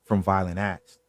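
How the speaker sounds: measured storytelling read; true-crime narration. A narrator's reading. Host reads a desert murder case to stream viewers, storytelling narration.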